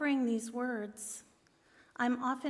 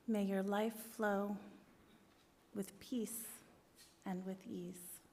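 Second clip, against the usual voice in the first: meditation blessing. Acted. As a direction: recite calmly, pausing after each phrase. Recites a loving-kindness meditation blessing.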